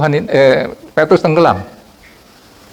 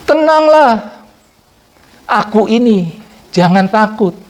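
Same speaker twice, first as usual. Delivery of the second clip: as God speaking to you; 2 semitones higher, slower than usual. Shown as a demonstration. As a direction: speak it like the Lord comforting you personally. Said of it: "saudara bayangkan Tuhan sedang berbicara kepada saudara".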